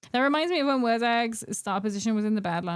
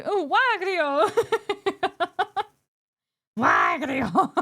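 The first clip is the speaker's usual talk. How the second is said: laughing excitement; 7 semitones higher, much slower than usual. Real, not acted. Naming Wario excitedly.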